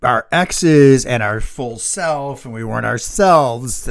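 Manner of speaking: slow, lightly hammed-up silly voice; silly put-on voice. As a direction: stretch it out in a goofy voice, half a joke. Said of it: "I love how you add that voice".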